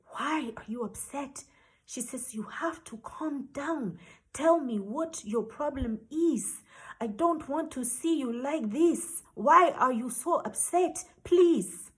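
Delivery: a touch of tender concern. Retold or imitated. Voicing kind boss calming him.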